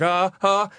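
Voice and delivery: nervous little "ah" sounds, imitated; scared yelps. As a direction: let out small frightened cries. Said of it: "like, scared".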